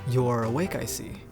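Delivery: low, quiet character voice; deep-voiced Pierce. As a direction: drop into a deep, soft voice. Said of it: "how deep the guy's voice is".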